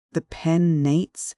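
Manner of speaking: put-on Welsh accent. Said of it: "in an ever-strengthening Welsh accent".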